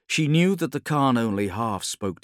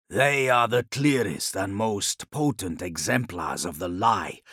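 measured, deliberate reasoning; lightly voiced Khan, weighing each thought; brooding Khan. The Khan explains his suspicions to Ilya, grave and deliberate.

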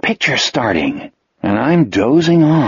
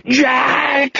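panicked cry, much higher; terrified scream; 12 semitones higher than usual. A narrator's reading. Wolf crying out to Jack at the fire, screaming. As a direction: shriek his name in terror. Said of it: "he screamed".

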